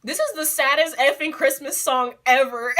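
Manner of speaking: laughing quote. Retold or imitated. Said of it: "and she was just like".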